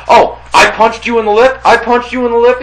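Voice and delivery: high, loud sarcastic retort; mock his partner in a high voice; sarcastic neighbor. Neighbor sneering back at his partner, high and loud.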